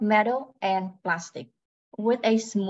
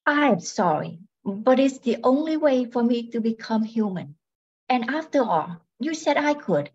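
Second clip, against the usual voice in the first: robot voice; 2 semitones higher than usual. Acted. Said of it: "She speaks in a robotic voice".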